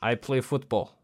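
3 hammed-up German footballer; 1 German accent. Shown as a demonstration. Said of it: "This is my German accent".

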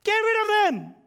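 high, loud dismissive shout; cold-hearted disciples. Retold or imitated. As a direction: brush them off like a heartless disciple. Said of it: "These are serial cold hearters".

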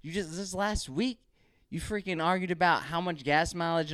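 high, exasperated protest; retold exasperation. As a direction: throw up your hands at your wife, pitched high. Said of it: "I was like".

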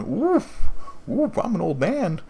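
high-pitched, hammed-up oohing old man; mock pained wincing. Sensitive dad holding his chest at the show, mock wincing. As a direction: wince in a high, exaggerated wail.

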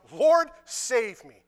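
loud, drawn-out plea; stretched-out cry for help, slightly hammed-up. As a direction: call slowly and loudly for rescue. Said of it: "cried out".

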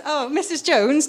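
put-on slow, lilting Welsh accent; drawn-out Welsh lilt; Welsh teacher voice. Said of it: "she was tiny and blonde and very Welsh".

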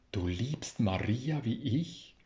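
leiser, gerührter Stotterer; moved stammer. A narrator's reading. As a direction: ask it quietly, moved almost to tears. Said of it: "stotterte er berührt".

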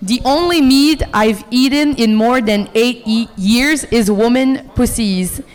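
English read with an Acadian French accent. Real, not acted. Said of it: "pour mon accent, je viens de la péninsule".

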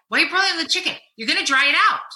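wife scolding husband over dry chicken; exasperated scold. Retold or imitated. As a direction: push the pitch up in disbelief. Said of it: "and I said".

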